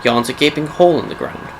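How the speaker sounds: measured storyteller intoning dark history; solemn game-lore prologue read; dramatic lore narration. A narrator's reading. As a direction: narrate a grim legend with deliberate pauses. Reads a scripted lore introduction.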